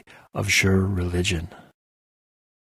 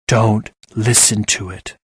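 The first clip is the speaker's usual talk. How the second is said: snapped; slower than usual. Acted. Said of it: "snapped Eargarten".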